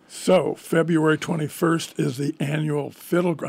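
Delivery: hoarse, catching throat mid-sentence; husky voice with a frog in the throat. Real, not acted. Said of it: "I have a frog in my throat".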